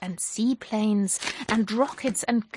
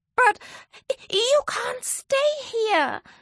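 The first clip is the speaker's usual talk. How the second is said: sudden, very high yelped cry; 13 semitones higher than usual. Narrator reads a character answering the crashed dragon: yelping. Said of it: "yelped Zoe".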